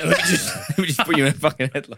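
put-on drunk menace.

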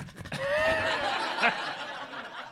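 high, drawn-out wordless noise; imitated dog noise. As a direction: act out your own endless silly noise. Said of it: "three minutes of me going".

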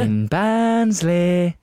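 slow, drawn-out Yorkshire voice; Barnsley accent. Shown as a demonstration. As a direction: stretch it out like a Barnsley local. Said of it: "That's my favourite".

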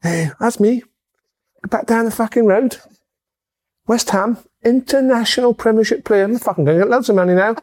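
high, hammed-up cockney boast; mock cockney. Mocking a cockney player bragging about money in cockney. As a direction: brag like a cockney chancer. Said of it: "The accents are back".

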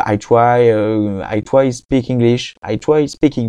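halting English with a strong French accent; slow, careful schoolbook English in a French accent. Real, not acted. Practising English in the car, French accent. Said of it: "Et mon accent, vous me pardonnerez, il est vraiment pas bon".

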